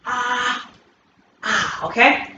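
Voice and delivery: sharp burst of ah then okay; attack shout. Shown as a demonstration. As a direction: bark a short attack sound.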